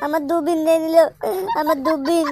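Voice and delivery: hammed-up tearful complaint; mock crying. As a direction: whine like a child robbed of a toy. Child wails over taken binoculars.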